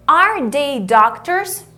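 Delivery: Are they doctors? said slowly, pitch rising at the end; rising question tune. Shown as a demonstration. Teacher showing the question intonation. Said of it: "Olha a entonação".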